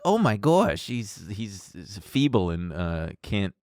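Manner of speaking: lightly voiced nerd, fading soft; a timid nerdy whimper. Host imitating a nerdy feeble voice, trailing soft. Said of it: "little nerdy".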